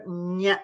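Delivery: "Nya" with tongue pressed to the palate; palatal nasal. Shown as a demonstration. Teacher showing palatal sounds, "Nya" pressed on the palate. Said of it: "has to come from the Talavya".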